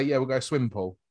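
casual Southern English accent. Shown as a demonstration. Showing his own speech against the Queen's, Southern English accent. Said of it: "me, being Southern English".

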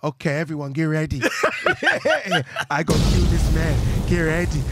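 mock taunt. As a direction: taunt him like a boxer. Voicing Canelo taunting opponent.

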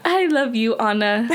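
attempted British accent farewell; playful, half-held British accent; mock British accent. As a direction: answer in a put-on British accent. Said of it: "I can't do this".

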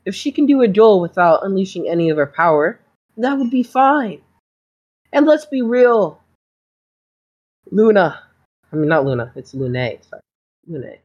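a smooth talking school doctor feigning innocence; smarmy doctor. Acted. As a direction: play the doctor as falsely sweet and wounded. GM holds doctor voice.

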